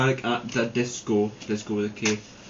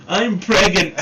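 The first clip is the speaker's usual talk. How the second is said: much higher, louder mock cry; hammed-up shriek; 9 semitones higher, 9 dB louder, slower than usual. Reading fan fiction, the heroine announces news, mock shriek.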